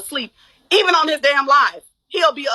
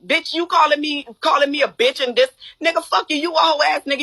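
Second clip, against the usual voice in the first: angry retold rant, somewhat raised; mad; 2 semitones higher than usual. Woman replaying her insults at the man, mad. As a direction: relive the anger, cursing him out. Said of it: "I was mad".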